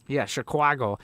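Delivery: Chicago said as "shi-KWAH-go"; exaggerated Chicago accent. Streamer mocking the funny Chicago accent, exaggerated Chicago accent. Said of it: "That's what's funny about the, the Chicago accent".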